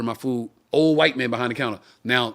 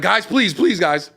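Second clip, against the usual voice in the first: put-on nervous old clerk; 6 semitones higher, 5 dB louder, slower than usual.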